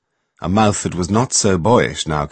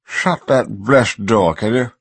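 irritable; 2 semitones higher, slower than usual. A narrator's reading. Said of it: "he said irritably".

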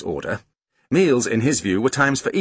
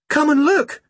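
put-on high-pitched child's call; excited shout; 5 dB louder than usual. A narrator's reading. Girl calling her family over on the beach, shouting. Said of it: "she shouted".

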